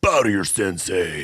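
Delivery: lightly voiced cocky martial arts instructor; Rex Kwon Do impression. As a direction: bark it like a self-proclaimed sensei. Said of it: "You sound like Rex Kwon Do".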